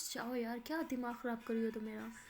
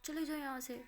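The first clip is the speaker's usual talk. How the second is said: angry; 2 semitones higher, 4 dB louder, faster than usual. Acted. Hurt Maya orders her friend out, angry. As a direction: throw her out angrily. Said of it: "माया बहुत गुस्सा करती है".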